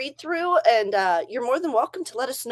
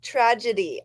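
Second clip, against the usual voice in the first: said slowly. Shown as a demonstration. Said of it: "I can say it if I say it slow".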